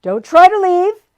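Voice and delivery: high, loud menacing command; menacing demon order. A narrator's reading. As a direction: stop them cold. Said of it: "he ordered with a menacing sweep".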